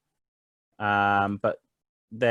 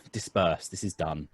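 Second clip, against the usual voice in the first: lightly voiced young officer, quietly authoritative; understated, softly falling command; calm authority; 4 semitones lower, 5 dB quieter than usual. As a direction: dismiss a crowd without raising your voice. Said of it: "he actually has quite an authoritative voice".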